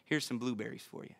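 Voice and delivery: put-on sweet little kid. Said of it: "and he'll say".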